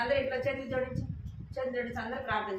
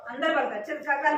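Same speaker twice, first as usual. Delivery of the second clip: louder firm command to the class; firm call; 5 semitones higher, 6 dB louder, faster than usual. Real, not acted. Teacher ordering the children to recite together. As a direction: call everyone to attention. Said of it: "teacher commanding class again".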